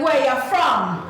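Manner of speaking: flirty waiter. Retold or imitated. Waiter chatting up the guest, slow. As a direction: lean in and ask, drawn out. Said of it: "And he's like".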